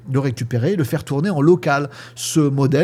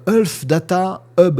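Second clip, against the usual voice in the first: Health Data Hub in slow French-accented English; a French speaker stumbling through the English Health Data Hub; clumsy English accent; 4 semitones higher, much slower than usual. Real, not acted. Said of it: "pardon pour ma, mon accent, euh, anglais, dégueu".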